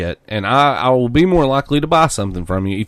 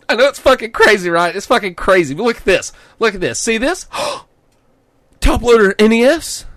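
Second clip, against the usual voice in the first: much higher, louder bro voice; hyped bro; 10 semitones higher, 4 dB louder than usual. Retold or imitated. Imitating the clerk, high gushing bro voice. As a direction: gasp and gush like a fan.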